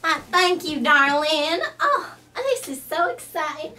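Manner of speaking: loud, high Southern belle gushing over darling; a fussy Southern belle who flatters everyone; big, sweet Southern charm; Rhonda Lou. Acted. Rhonda Lou takes her seat.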